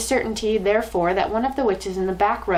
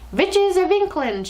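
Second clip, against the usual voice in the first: put-on much higher, slow, loud foreign-accented call; accented shout; 10 semitones higher, 4 dB louder, slower than usual. Grand High Witch calls her witches, loud high accented shout. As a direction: summon the witches in a booming accented cry. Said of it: "shouted the Grand High Witch".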